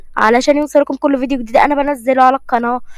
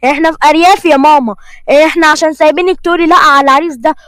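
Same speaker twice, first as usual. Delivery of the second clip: angry father. Acted. Father scolds daughter about working.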